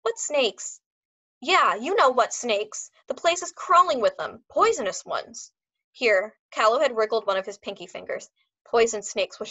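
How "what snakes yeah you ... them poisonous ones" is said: put-on dog trainer in a German accent, agitated; a heavy German accent, slowing on the warning. A narrator's reading. Dog trainer warning about snakes, German accent.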